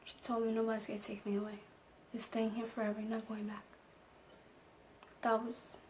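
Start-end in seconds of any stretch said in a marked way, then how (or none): 0.5-3.6 comforting reassurance. Retold or imitated. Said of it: "just comforted me".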